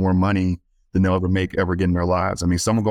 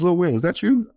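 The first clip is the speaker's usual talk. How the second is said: much higher, questioning call; imitated higher-pitched greeting with a rising question; surprised recognition; 11 semitones higher than usual. Man at the bank recognizing a boy, surprised.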